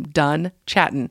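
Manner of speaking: "done chatting" slowly, a gap between first name and surname; slow, separated "done" and "chatting". Retold or imitated. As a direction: present "done chatting" as a full name, word by word. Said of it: "as his last name".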